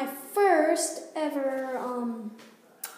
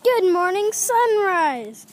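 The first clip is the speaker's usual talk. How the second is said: loud, lifted greeting to the sky; raised voice, falling away on the last word; cheerful greeting; 3 semitones higher, 6 dB louder than usual. Shown as a demonstration. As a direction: call out a morning hello. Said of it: "This is how I say".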